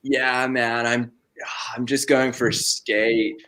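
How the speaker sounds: laid-back LA skater dude; lightly put-on LA skater accent. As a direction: drawl it like an LA skater. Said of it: "L A, L A skater vibe?".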